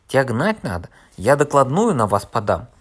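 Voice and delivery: loud, threatening rant; angry shout. Acted. Fat man threatening Korneev with a report, shouting. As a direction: threaten him at full voice.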